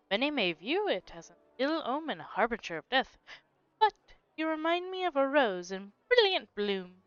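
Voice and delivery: suave flirt. Acted. Reading flirty character dialogue.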